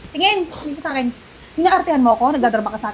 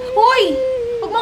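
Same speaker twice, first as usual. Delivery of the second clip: angry shout; 6 semitones higher than usual. Acted. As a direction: jolt her with one shout. Carer snaps at crying elder.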